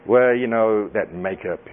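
low, drawn-out scolding; disapproving churchgoer. Acted. Mimicking a religious scold about makeup, slow and disapproving. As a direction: stretch out the insult in judgment.

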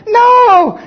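very high, loud shouted no; flat refusal. Acted. Israelites refusing God's instruction, a high loud no. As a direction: yelp it out defiantly.

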